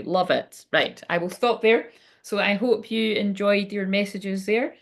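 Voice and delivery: stiff, formal robot-like delivery; like a newsreader, very formal. Real, not acted. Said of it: "I am talking like a robot".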